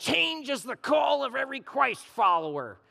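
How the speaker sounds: put-on speaking with Philadelphia accent. Quoting what seminary professor Howard Hendricks told a class, in Howard Hendricks's Philadelphia accent. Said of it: "he talked like that because he was from Philadelphia".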